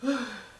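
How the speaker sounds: mock winded exhale; exhausted sigh. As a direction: puff out a sigh as if worn out. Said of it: "Taking a shower was so hard".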